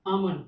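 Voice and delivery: आमन with the L left out; silent L. Shown as a demonstration. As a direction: say आमन as "aa-man", no L sound. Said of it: "एल क्या हो गया".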